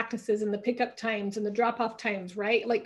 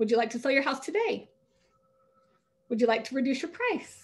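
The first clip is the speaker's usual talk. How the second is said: upward lilt ending today and price; 2 semitones higher than usual. Coaching on talking to home sellers, demonstrating the ineffective upswing: rising upswing intonation. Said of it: "women tend to talk in upswings".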